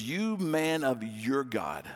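slow, drawn-out scorn at the stranger; scornful retort. Retold or imitated. Widow scorning the prophet, slow and scornful. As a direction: spit it out slowly with contempt. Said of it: "she kinda goes off".

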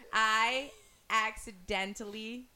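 slow, word by word; staccato. Shown as a demonstration. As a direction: space out each word. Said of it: "one word at a time".

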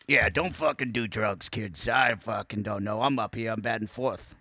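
a hint of the crime dog, mildly hammed up; gruff crime dog. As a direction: bark it like a washed-up mascot. Voices McGruff the dog.

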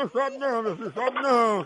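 soft, hushed soothing aside; quietly calm a crying baby mid-sentence; hushing a baby. Pretend. Caller soothes the pretend crying baby, soft hush.

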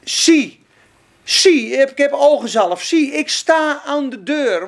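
loud, emphatic Jesus voice; loud proclaiming voice of Jesus; preached proclamation. Acted. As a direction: proclaim it with force. Preaching Jesus' words at full force.

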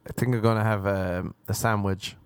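mock vlogger chat broken by forced giggles; imitating an Instagram poser laughing at nothing; fake influencer laughing. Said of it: "why the fuck are you laughing".

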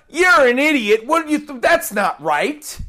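mock a rude put-down; mock insult. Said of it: "that's not a godly way to respond".

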